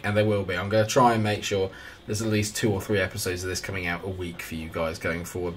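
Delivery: ordinary talk, nothing marked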